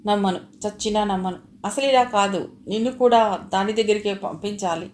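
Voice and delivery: loud furious threat; enraged. Acted. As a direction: spit the refusal out in rage. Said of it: "ఉద్రేకంగా".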